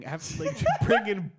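loud, high indignant rant; pissed-off Satan. Acted. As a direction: rant like an outraged Satan, hammed up. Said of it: "They're so pissed right now".

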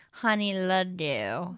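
slow, slurred, low-pitched tipsy delivery. Shown as a demonstration. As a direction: run the words together like you drank too much. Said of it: "like when you drank too much".

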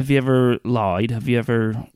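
a hint of New Zealand preacher accent. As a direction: ask it in a half-hearted New Zealand accent. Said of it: "is that good?".

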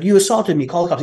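high-pitched imitation of a frantic addict; mock freak-out. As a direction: mimic someone losing it. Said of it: "He's freaking out".

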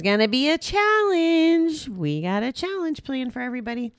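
high, bright hype announcement; excited. Real, not acted. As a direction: announce it like big news. Hyping upcoming challenge.

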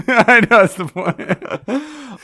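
put-on Australian accent. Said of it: "You sound Australian".

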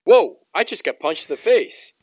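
high-pitched imitation of stunned disbelief; mock shock. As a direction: play up a delayed startled reaction. Acting out player's delayed shocked reaction.

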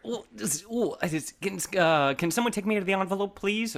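cramped, strained voice squeezed in tight; talking while stuck in a tight space; crawling in crawlspace. Acted. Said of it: "it's so tight in here".

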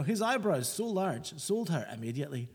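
hammed-up Scottish accent; mock Scottish accent. Co-host reading a listener's hate poem, mock Scottish accent. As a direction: read it out in a broad joke Scottish accent. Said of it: "offensive Scottish accent now".

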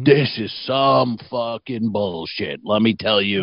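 slow, drawn-out tough-guy rant; grumbling biker. Retold or imitated. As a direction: complain to the whole room, slowly. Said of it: "so everyone in the restaurant could hear".

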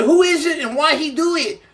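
high, feigned bewildered question; mock-innocent retold dodge; playing dumb. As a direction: act clueless, voice up high. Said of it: "And I said".

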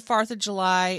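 "farth" with an open AR vowel; O words like R. Retold or imitated. Improviser confirming the accent choice, "farth" said with AR. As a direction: put AR into "farth". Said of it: "said all her O words like R".

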